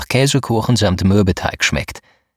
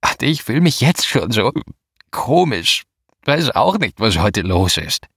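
put-on slurring drunk; 3 semitones higher than usual. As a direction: slur it like a tipsy young woman. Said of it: "lallte sie".

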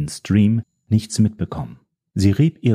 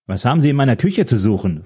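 sharp, raised demand; snapping at her; 4 semitones higher than usual. Acted. Old man confronts the woman in his kitchen, sharp. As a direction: bark it at the intruder. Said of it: "fuhr ich die Frau an".

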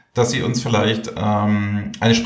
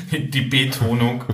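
mocking flat delivery; slower than usual. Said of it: "Es gibt halt gar keine Betonung".

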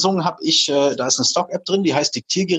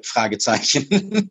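dictating; slower than usual. Shown as a demonstration. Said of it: "musst du auch sagen".

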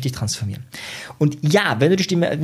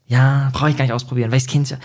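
abwinkend. Acted. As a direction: wave it off like a know-it-all. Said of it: "bei Menschen, die sagen". (abwinkend, gelangweilter Besserwisser)

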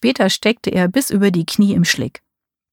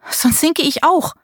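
worried; 9 semitones higher than usual. A narrator's reading. Marie afraid of sinking.

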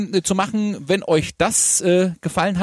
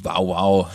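dog bark imitation; 8 semitones lower than usual. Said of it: "wie macht der Hund?".

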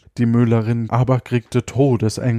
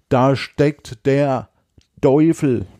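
dramatic slow reveal; slower than usual. Acted. Bürle reveals the devil, dramatic.

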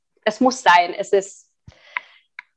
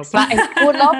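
dramatic reveal, pitched up and louder; clickbait video narrator; 6 semitones higher, 5 dB louder, faster than usual. Acted. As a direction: sell it like a big twist. Repeats the reveal for effect. (wie ein Clickbait-Erzähler, dramatisch)

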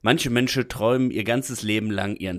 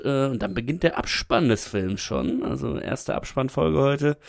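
talking with nose held shut; pinching nose. Real, not acted. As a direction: pinch your nose and narrate. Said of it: "halt mir die Nase zu".

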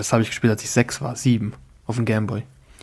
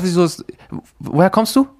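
excited disbelief; 7 semitones higher, 3 dB louder than usual. Real, not acted. Amazed friend hears Rock.

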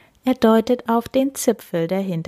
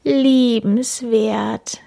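sigh; 3 semitones higher, 4 dB louder, much slower than usual. Acted. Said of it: "seufzt Kim".

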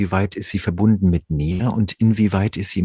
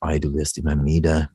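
a hint of Hessian dialect, mock soothing; Hessian hypnotist. Hypnotist in Hessian dialect lulls his client, mild mock Hessian. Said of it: "auf Hessisch dann sagt".

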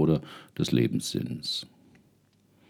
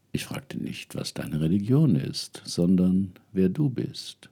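whispering elder spirit; 5 semitones higher than usual. Acted. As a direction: whisper the question from beyond. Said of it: "Dann sagte die Frau".

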